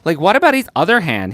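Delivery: American-accented replay of the slip. Shown as a demonstration. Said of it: "did you hear my American accent".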